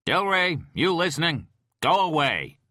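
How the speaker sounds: captain yelling at FBI agent; angry shout. Acted. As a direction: yell him out of the room.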